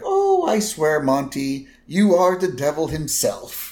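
mock swooning old woman; a hint of a flattered old lady; Jackie quote. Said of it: "And Jackie's like".

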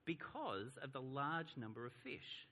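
measured, evenly paced Bible reading; scripture reading. A narrator's reading. Preacher reads the Gospel story to the congregation, scripture reading. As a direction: read the passage aloud to a congregation.

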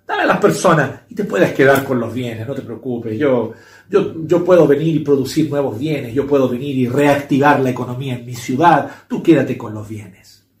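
imitating a condescending, arrogant king; aires de superioridad. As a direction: talk down to him with mild, put-on superiority. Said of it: "con aires de superioridad". (con cierto aire arrogante e irrespetuoso)

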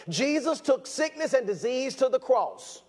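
slow emphatic preaching. Real, not acted. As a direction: drive each word home, preacher style. Preaching at full force.

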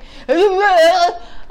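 loud Cookie Monster-like growl; mock wordless monster grumble; imitated grumble. Imitating how her ex answers, loud grumbling noise. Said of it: "he grumbles".

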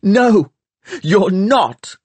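high, loud insistent no; boy shouting back at the girl in the quarrel; shouted denial. A narrator's reading. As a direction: refuse her claim forcefully.

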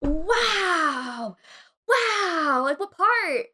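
high, drawn-out mock awe; gushing, condescending interest; patronizing wonder. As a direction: coo as if at a ten-year-old. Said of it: "I feel like I'm being talked to".

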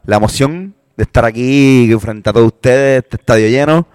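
acento del sur de España, con titubeos; español del sur. Acted. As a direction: emocionado cantante andaluz, imitado a la ligera. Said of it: "Sí, soy de España del sur". (español del sur que presenta humilde y lento)

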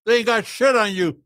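talking around a cigar; words through a clenched cigar; cigar in mouth. Real, not acted. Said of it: "See if we can talk with a cigar in your mouth".

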